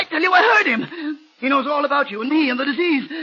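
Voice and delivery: frightened, near crying; frantic fear. Acted. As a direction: panicky and haunted. Harris frantic about voice.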